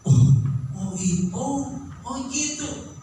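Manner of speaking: slow, high "oh gitu" of sudden insight; rising, drawn-out "aha"; dawning realization. Acted. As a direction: let the penny drop. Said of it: "bisa timbul".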